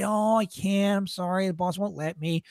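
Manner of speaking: put-on sorry refusal, fading at the end. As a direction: let them down gently, mock regretful. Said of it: "They're so sorry".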